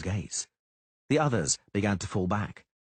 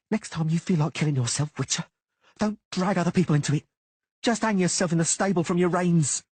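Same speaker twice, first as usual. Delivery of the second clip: higher, louder sneering threat, not truly whispered; menacing whisper; 10 semitones higher, 4 dB louder than usual. A narrator's reading. Ratty-faced man threatening Geralt, sneering and louder. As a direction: hiss out a threat over a beaten man. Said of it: "Geralt heard the clear whisper".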